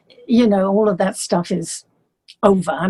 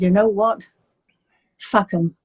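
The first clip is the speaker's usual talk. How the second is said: put-on Liverpool accent. John dismissing the critics in a light Liverpool accent. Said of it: "with a Liverpool accent".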